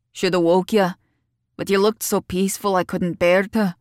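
lightly voiced local man, kindly; a touch of dialect, considerate; Keats. A narrator's reading. Keats explaining to his guest why he let her sleep, kindly.

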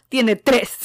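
stunned. Retold or imitated. Percy shocked by three bodies.

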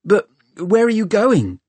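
high-pitched, pressing appeal; urgent question. A narrator's reading. Tom hurries after Hester heading off, urgent. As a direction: call it after her urgently. Calling after her, anxious.

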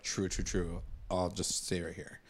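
low, soft dazed mumble; quiet. Retold or imitated. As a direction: mumble it absently. Dilton voiced, dazed.

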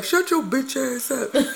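slow, drawn-out mock heckle; Meryl Streep meme impression. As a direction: lightly imitate a heckler in the crowd. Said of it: "she be like".

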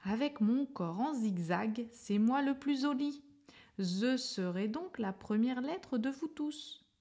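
boastful lisping letter Z. A narrator's reading. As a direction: lisp on "zigzag" and "joli" as you show off. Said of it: "Z s'écria en zozotant".

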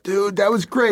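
high-pitched enthusiastic compliment; retold excited congratulations; acted praise.

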